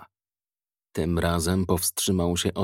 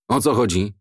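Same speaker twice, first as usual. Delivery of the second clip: put-on gruff old man. A narrator's reading. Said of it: "mruknął".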